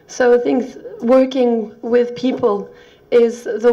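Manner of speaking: hoarse, croaky lost voice; speaking through a croaky throat. Real, not acted. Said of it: "bear with my croaky voice".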